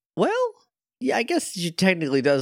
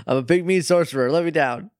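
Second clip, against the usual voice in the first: lightly mocked indignant protest, quick and higher; Donald protesting; 4 semitones higher, faster than usual. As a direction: play a small sorcerer demanding release.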